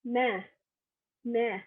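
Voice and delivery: "mère" as "mehr", open vowel, falling; French pronunciation. Shown as a demonstration. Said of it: "You'd say".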